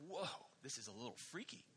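spooked hush. Retold or imitated. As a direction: breathe it out, a bit creeped out. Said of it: "And you're like".

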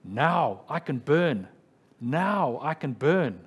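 a martyr's slow, triumphant proclamation; mock triumphant cry. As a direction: declare it slowly, victorious at last. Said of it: "he cried out triumphantly".

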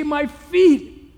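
high, loud, slow whiny groan; mock complaint. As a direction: ham up a petty gripe. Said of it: "He didn't say".

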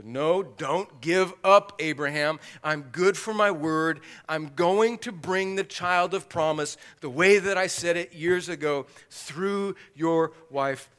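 loud, drawn-out assurance voiced as God; emphatic promise. God assures Abraham of the promised child, emphatic promise. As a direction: drive each phrase home forcefully.

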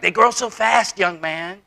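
a hint of a fond elderly onlooker; old person voice. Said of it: "old people would come up ... say things like".

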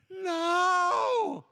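high, loud cry of dismay at the screen; anguished shout. Retold or imitated. Pastor crying out as his computer dies, a loud shout. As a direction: yell it out as the work vanishes.

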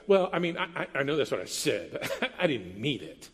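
soft, low, laughing it off; nervous laughing excuse. Retold or imitated. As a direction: laugh it away sheepishly. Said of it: "maybe it sounds like".

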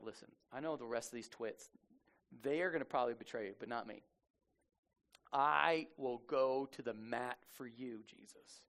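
low, soft and confiding, acting out Peter; hushed earnest pledge. Peter's solemn pledge, retold.

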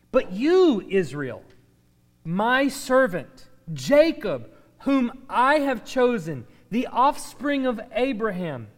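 emphatic, measured Bible reading; scripture reading. Acted. God reassuring Israel his chosen servant, solemn scripture reading. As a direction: declaim it in weighted phrases.

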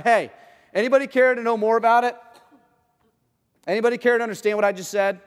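loud, high calling out to the crowd; yelling out. Retold or imitated. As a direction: call it out to the whole crowd, teasing. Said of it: "he's just yelling out".

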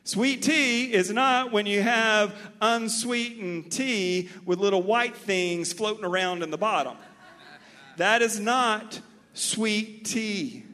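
mock-offended Southerner; playful indignation. Real, not acted. Playful sweet tea rant.

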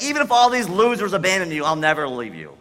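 emphatic retold pledge; bold boast. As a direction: vow it loudly, letting the pitch fall. Acts Peter's boast before the denial.

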